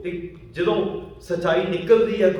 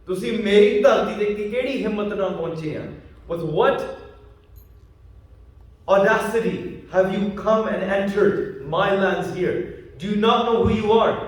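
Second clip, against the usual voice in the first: raised, indignant retold challenge; acting out an affronted landowner, words drawn out; mock outrage at trespassers; 3 semitones higher than usual. Acted challenge from hostile landowner.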